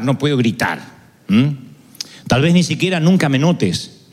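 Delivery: lightly voiced soul speaking gently; reading a prayer. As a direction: poetic reading over music. Reads the soul's prayer over music.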